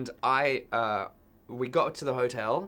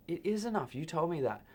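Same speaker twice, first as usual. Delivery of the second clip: much higher, pleading objection; nervous protest; 5 semitones higher, 4 dB quieter than usual. Retold or imitated. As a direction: protest with a scared, high pitch. Protesting to the gunman.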